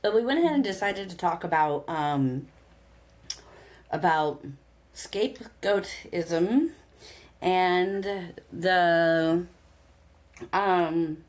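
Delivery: chewing a gummy while talking; mouth full. Real, not acted. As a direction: talk around a gummy in the mouth. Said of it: "sorry, I'm chewing on".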